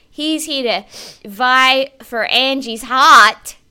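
usual speaking voice

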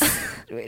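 low, soft breathy chuckle; brief quiet laugh mid-sentence; short laugh. Real, not acted. Recapping a racy scene, quiet chuckle.

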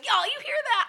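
high, loud Southern call to the office; Southern gossip. Retold or imitated. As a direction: spill the news in a Southern twang. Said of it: "she turned around and she goes".

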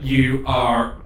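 very slow, halting machine voice; robot character. Acted. Warforged just repaired thanking its helper, slow halting robot voice. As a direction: speak like a machine stuttering back to life. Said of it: "It goes".

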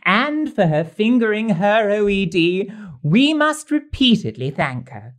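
theatrical rhyming verse recital; poem recital. Acted. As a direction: recite the couplets with a flourish. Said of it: "I've been busy authoring some rhyming couplets".

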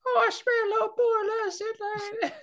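very high, squeaky fake child; little boy's voice. Man desperate to be let in, fake little boy's voice. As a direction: plead like a grown man faking a little boy. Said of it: "a man doing a little boy's voice".

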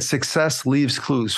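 slow motto. Real, not acted. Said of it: "Like I said".

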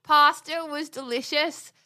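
slow, drawn-out put-on accent; bad British accent. Still doing the accent bit for husband, slow and hammy. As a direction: stretch the vowels in a mock accent. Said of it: "you suggested that I do an accent".

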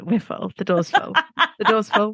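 joking, laughter breaking into the words; laughing excuse. Pretend. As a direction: make a silly excuse through laughter. Joking excuse for not inviting her.

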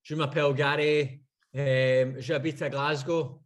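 schoolboy French, Scottish accent. Shown as a demonstration. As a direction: recite school French as asked. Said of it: "So what can you say, Gary?".

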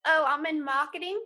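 put-on a light, half-hearted British accent; barely-there London accent, pretending; mock British accent. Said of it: "in your British accent".

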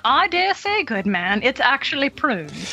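a prim mock correction; tut-tut the comedian in a mannered way; tut-tutting. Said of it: "tut-tutting that comedian".

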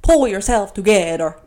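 lighter repeat of the bad cartoon impression; forceful, lightly put-on character accent; Edna. Repeating the cartoon line as her own vibe, hammed-up accent. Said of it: "that was a terrible Edna accent".

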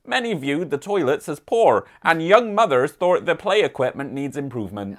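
light mock West Country accent, reading the council news; a gentle West Country burr on a local newsletter; hint of a rural West Country accent. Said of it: "I've been doing my West Country accent all weekend, so we're gonna stick with that".

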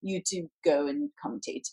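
rapid imitation English accent. Agent relaying a TV network's offer, imitated English accent. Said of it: "with this English accent".

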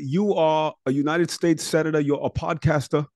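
a hint of Bernie scolding the co-host; Bernie Sanders impression. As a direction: play the old senator gaveling a rowdy hearing. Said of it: "I'm doing now my Bernie Sanders".

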